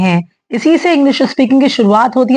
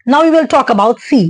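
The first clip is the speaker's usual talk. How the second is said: slow English line; much slower than usual. Shown as a demonstration. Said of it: "English phrase in lesson".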